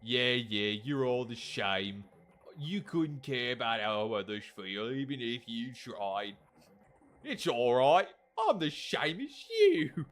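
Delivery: attempted British accent for a game character; put-on British accent. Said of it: "I'm trying to do a British accent".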